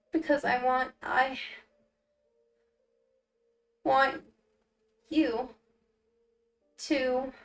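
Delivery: lightly voiced halting stutter, long pauses between words. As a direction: force each word out one by one. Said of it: "struggle with a stutter this intensely".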